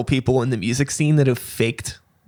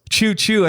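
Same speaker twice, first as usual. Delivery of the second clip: playful train noise; 6 semitones higher than usual. Pretend. Train pun to wrap up.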